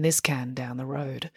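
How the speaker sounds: unvoiced playful whisper. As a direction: drop to a whisper for the joke. Whispered aside in sponsor plea.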